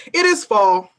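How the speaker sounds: deliberate, weighty spoken-word recitation; a poet performing at a reading; spoken word poem. Acted. Reads second poem aloud.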